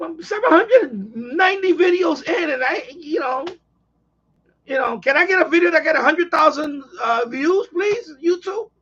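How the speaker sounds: whiny, pleading, half crying; mock whining plea. Real, not acted. Begging YouTube for views.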